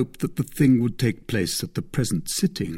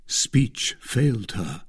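plain reading voice

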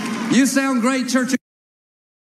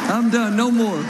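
laughing. Real, not acted. Laughing while closing jokes.

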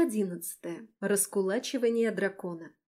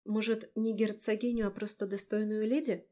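doubtful. Acted. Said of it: "с сомнением спросила".

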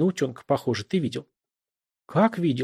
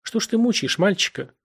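smug; 8 semitones higher than usual. A narrator's reading. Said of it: "самодовольно сказал Монахов".

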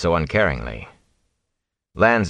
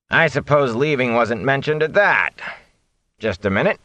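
higher, insistent gatekeeper voice; gruff watchman; 7 semitones higher than usual. Acted. Watchman explaining curfew to travelers, insistent voice. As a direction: lay down the rules to strangers.

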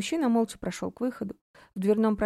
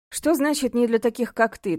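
louder, stressing "Что"; demanding question; 5 semitones higher, 7 dB louder than usual. A narrator's reading. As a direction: insist on an answer. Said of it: "требовательно поинтересовался Олег".

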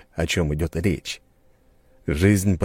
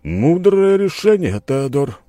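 slow, higher, authoritative praise; calm but commanding; 11 semitones higher, 6 dB louder, slower than usual. A narrator's reading. Host praising Theodor's choice, calm but commanding. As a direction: speak calmly with full authority. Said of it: "спокойный, но властный голос".

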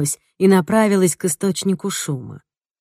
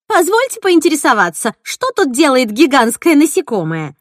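high, louder, biting sarcasm; a sarcastic twin, pitched high and loud; 9 semitones higher, 5 dB louder than usual. Acted. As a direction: needle them with mock politeness. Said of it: "съязвила близняшка Джойс".

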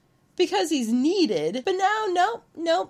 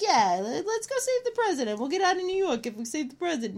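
hammed-up tough-guy sidekick; mocking Brain; 3 semitones higher, faster than usual. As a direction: rattle it off like the cocky sidekick. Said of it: "That's how he talks".

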